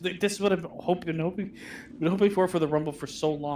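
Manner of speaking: talking through burps; burping the words. Real, not acted. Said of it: "You talking through burps?".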